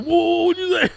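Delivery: high startled challenge; mock offended. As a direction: rise up at an insult. Someone escalating at an insult.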